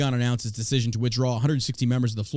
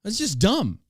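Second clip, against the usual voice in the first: exasperated high pitch; 10 semitones higher than usual. Real, not acted. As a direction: voice jumps up high in disbelief. Ranting at the news, voice cracking high.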